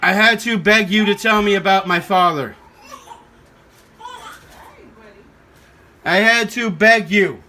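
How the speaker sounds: low, heavy, hurt repetition; wounded reproach. Real, not acted. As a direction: say it worn down, as an accusation. Hurt, repeating he had to beg.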